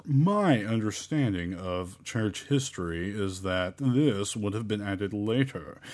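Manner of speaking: drawn-out, snooty scholar voice; slow, haughty know-it-all delivery. Acted. Mocking scholars who doubt the verse, in a very snooty voice. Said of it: "in my very snooty voice".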